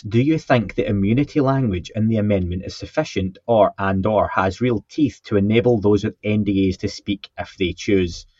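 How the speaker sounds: lightly posh English reading voice. Shown as a demonstration. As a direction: read it out in a mildly posh accent. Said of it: "I'll read it in a, my posh voice".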